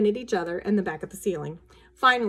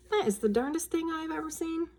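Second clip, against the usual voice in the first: amazed father; 8 semitones higher, 5 dB quieter than usual. A narrator's reading. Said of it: "He said".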